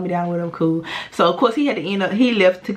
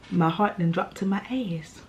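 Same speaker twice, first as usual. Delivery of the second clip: whisper; 7 dB quieter than usual. Retold or imitated. Retelling the suspension shock.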